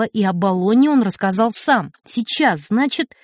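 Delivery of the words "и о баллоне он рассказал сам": ordinary delivery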